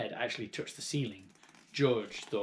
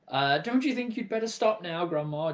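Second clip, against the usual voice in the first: put-on worried boy call; 6 semitones higher, 4 dB louder than usual. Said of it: "George called out".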